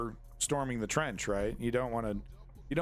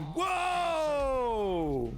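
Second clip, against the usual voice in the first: surprised; 10 semitones higher than usual. Real, not acted. Huge blast on footage.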